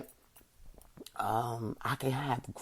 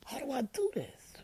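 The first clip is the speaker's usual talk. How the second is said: whispered to herself, a touch higher; 11 semitones higher, 7 dB quieter than usual. Retold or imitated. Asking herself how to balance it all, whispered. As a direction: breathe the question out in a whisper. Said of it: "So I'm like".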